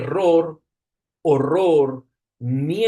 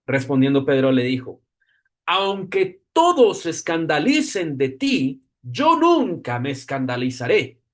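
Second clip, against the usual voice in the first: scripture reading. Acted. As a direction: read the passage with solemn weight. Reads the Gospel passage aloud.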